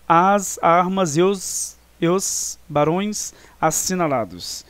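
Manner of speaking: slow verse reading, "As armas e os" linked across the vowels; words run together. Shown as a demonstration. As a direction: link "As armas e os" as poetic syllables, drawn out. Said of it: "porque você fala".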